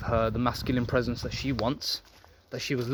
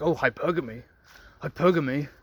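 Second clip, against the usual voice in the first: bitter incel whine. Retold or imitated. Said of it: "all bitter and frustrated and be like".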